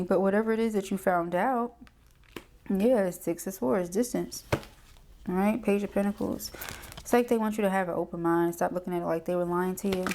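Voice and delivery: ordinary talk, nothing marked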